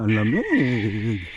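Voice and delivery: slow drawn-out bird voice. Retold or imitated. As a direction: stretch it like a freezing bird. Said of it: "Yan, yan".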